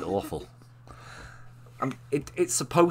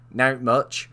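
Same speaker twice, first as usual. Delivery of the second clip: put-on Bristolian accent; 6 dB louder than usual. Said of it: "supposed to be Lucy's accent".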